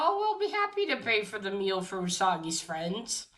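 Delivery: blurted out. Retold or imitated. Yukichi offers to pay for the friends' meal, blurted out. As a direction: blurt it out, then settle down. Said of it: "Yukichi blurts out".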